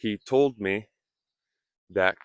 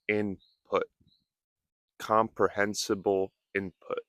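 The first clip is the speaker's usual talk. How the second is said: fast practice; 4 dB quieter than usual. Shown as a demonstration. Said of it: "you can practice saying".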